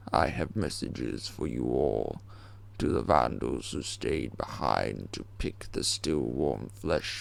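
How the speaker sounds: slow, measured menacing address; slow ominous broadcast speech; villain's proclamation. Acted. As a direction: proclaim it to the whole city, slowly.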